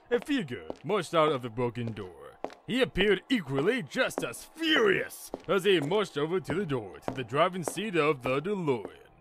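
animated storybook read; story narration. A narrator's reading. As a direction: narrate the tale with clear, measured emphasis.

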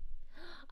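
quick audible breath in; impressed gasp. Real, not acted. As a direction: gasp at exciting news. Reacts to viewer's plane trip.

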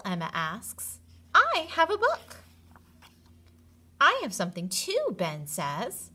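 lively storybook reading to a class; animated read-aloud with character voices; reading to children. A narrator's reading. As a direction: read it like story time for kindergartners. Teacher reads picture book to class.

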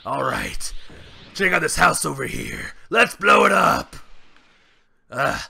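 gruff Saiyan brute hosting his channel; Broly voice. Pretend. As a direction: play Broly as a proud brute greeting fans. Broly character voice throughout.

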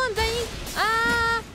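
normal talking voice

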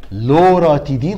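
loud, slow, drawn-out drug name; slow dictation. Shown as a demonstration. Lecturer reads out an exam question's drug, slow emphatic dictation. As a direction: spell it out slowly and firmly for the class.

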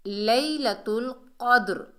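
slow लैलतुल, then heavy q and echoed d in क़द्र; careful Quranic recitation. Shown as a demonstration. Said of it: "कॉफ को मोटा पढ़ेंगे".

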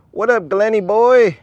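loud, high, drawn-out greeting; stretched-out, high-pitched call; calling to animal. Real, not acted. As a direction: holler a slow hello to a pet.

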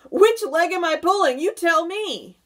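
high, loud teasing question; gleeful cry. A narrator's reading. Centipede taunting the legless earthworm, high and gleeful. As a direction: crow it with hammed-up glee. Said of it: "wriggling with glee".

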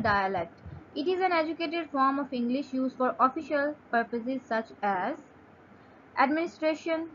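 slow, careful reading of a definition; slow dictation reading. Shown as a demonstration. Teacher reading a definition aloud to students, slow and careful. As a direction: read it out slowly for students to follow.

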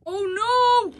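high loud panicked cry; shouting in alarm. Acted. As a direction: yell before the crash. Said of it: "shouted Sydney".

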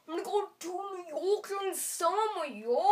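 gangsta voice. Acted. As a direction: strut it like a rapper. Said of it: "Gangsta? Ding, ding".

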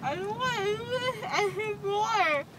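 crying. Real, not acted. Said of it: "Are you gonna cry?".

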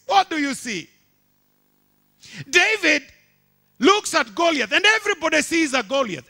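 high, loud fervent preaching; preaching at full force. Acted. Preacher exhorting the congregation, loud and high. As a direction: drive it home to the crowd.

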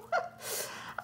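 short voiceless laugh; breath of a laugh; delighted laugh. Real, not acted. Delighted reaction to gift.

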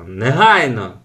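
father yelling. Acted. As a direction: shout his name from the porch. Father keeps calling. (батько кличе з веранди)

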